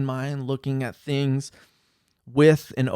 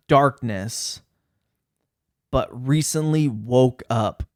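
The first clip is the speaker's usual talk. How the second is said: mock-serious letter read, louder; 3 dB louder than usual. Shown as a demonstration. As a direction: read it like a grave warning to everyone. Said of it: "in my serious voice".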